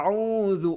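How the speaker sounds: আউযু with a soft, gentle dh sound; soft dhal. Shown as a demonstration. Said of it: "এই জালটাও নরম হবে".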